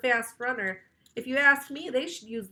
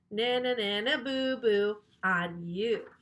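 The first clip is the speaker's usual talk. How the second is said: teasing. Acted. Teasing the reader.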